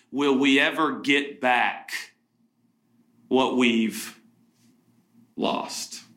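slowed down, with long pauses, the last word lost breathed out; slow, hushed question. Acted. Pastor asking the congregation, slow and hushed. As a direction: let the question hang, slow, and whisper lost.

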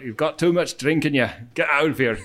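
put-on jokey Scottish-accented doorman; lightly put-on Scottish brogue. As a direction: turn away a drunk in a mock Scottish accent. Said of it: "Scottish accent was on the doorman also".

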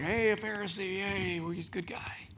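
imitating an impressed crowd, ending in a hush; a crowd cheering for the Pharisee; mock audience cheer. Pastor mimicking the congregation cheering the Pharisee. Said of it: "the audience, that's like".

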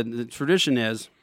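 talking through a mouthful; words round a bite of food; mouth full. Real, not acted. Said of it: "so I'm eating on the show".

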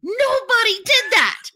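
high shouting disbelief; outraged shout. Retold or imitated. Rebutting the man's excuse, high outraged shout. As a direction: shout it back incredulous. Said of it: "And I said".

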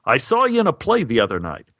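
friendly phone pitch, retold with good cheer. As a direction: lightly imitate a cheerful caller. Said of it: "He seemed full of good cheer".

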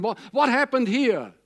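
ordinary talk

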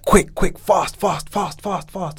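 high, hurried mock order; impatient casting director. Guest imitates the casting director hurrying him, high and impatient. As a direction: rush him like a pushy director. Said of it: "And they were like".

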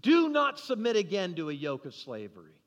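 firm retold command; battlefield speech. Paul warning believers against slavery, restrained battlefield speech. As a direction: proclaim it with measured emphasis. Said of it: "This is that battlefield speech".

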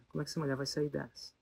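softly repeated worry; quiet worried repeat. Retold or imitated. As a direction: mutter it again to yourself. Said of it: "e eu falei".

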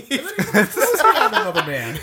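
laughing through a bad southern rattlesnake voice; failed southern accent. Snake telling how it was thrown at a man, in a laughing failed southern accent. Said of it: "What kind of accent did you give the snake there".

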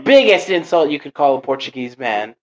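loud, emphatic indignation; mock offence. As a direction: declare it a grave insult, hammed-up.

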